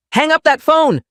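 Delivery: father roaring at daughter to hang up. Acted. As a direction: roar the order across the house. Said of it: "Dad roared".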